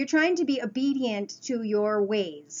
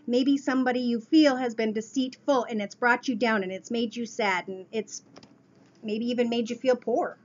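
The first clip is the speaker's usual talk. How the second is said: talking while chewing gum. Real, not acted. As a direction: speak around a piece of gum. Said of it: "Pardon my gum".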